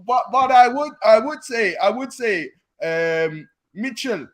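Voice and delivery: lightly put-on Jamaican accent, broken grammar; a hint of Jamaican accent; mock Jamaican accent. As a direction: slip into a jokey Jamaican accent. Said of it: "You've gone Jamaican now".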